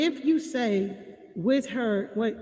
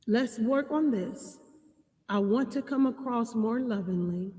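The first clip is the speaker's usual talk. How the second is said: loving. Shown as a demonstration. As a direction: gently soothe an upset partner. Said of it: "you can lovingly say".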